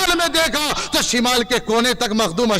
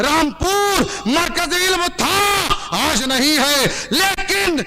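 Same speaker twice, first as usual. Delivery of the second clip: fiery preaching; 2 semitones higher than usual. Real, not acted. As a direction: proclaim it to rouse the whole gathering. Preacher building to a climax for crowd.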